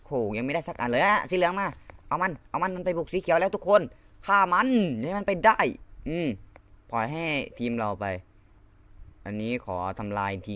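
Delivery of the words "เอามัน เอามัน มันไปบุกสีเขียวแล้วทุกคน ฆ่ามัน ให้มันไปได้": rally everyone to attack; excited rallying cry. Real, not acted. Gamer to his team, rallying them to attack.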